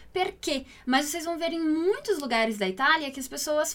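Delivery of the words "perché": "perché" with a closed final e, like ê; "perché" pronounced "per-KÊ". Shown as a demonstration. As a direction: say the end of "perché" as "ê", not "é". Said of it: "não se fala com o som fechado".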